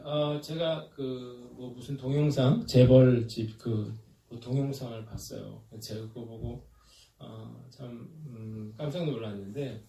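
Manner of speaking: ordinary talk, nothing marked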